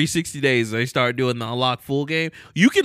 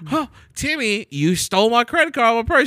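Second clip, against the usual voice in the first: high, loud angry mom; scolding mom; 7 semitones higher, 9 dB louder than usual. Acted. Parent scolding child skit.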